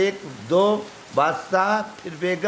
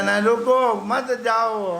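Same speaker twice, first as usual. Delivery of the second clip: pleading call; 4 semitones higher, slower than usual. Retold or imitated. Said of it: "हम कहते".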